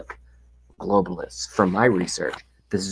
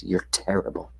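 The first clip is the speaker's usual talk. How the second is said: whispered insult; 7 dB quieter than usual. Acted.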